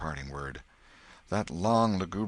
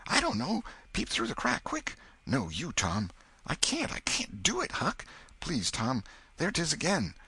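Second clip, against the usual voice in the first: put-on much higher, pleading scared boy; terrified boy; 11 semitones higher than usual. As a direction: beg your friend not to make you look. Boys terrified, arguing who looks.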